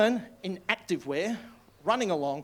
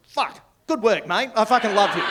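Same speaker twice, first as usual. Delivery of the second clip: delighted admiration; 7 dB louder than usual. Retold or imitated. Admiring inner thought.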